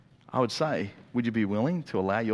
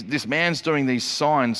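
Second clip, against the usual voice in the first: slow, weighted stress on "signs"; "signs" stretched out for emphasis; 3 semitones higher, slower than usual. Acted. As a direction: lean on the word "signs", drawing it out. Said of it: "that emphasis on the word sign".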